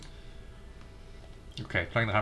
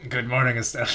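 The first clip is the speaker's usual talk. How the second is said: lightly voiced cheerful girl; a first stab at the girl's greeting; first try at Estelle's voice. Shown as a demonstration. Reading Estelle's line to Joshua, lightly voiced. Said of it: "I can't keep doing it that way".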